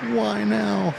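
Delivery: high, worried self-question; inner voice. Retold or imitated. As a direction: ask yourself in a rising panic. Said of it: "you say to yourself".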